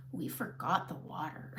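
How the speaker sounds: low, soft, laughing. Real, not acted. Confessing to viewers the spritzer had no water, laughing softly. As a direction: laugh through the punchline.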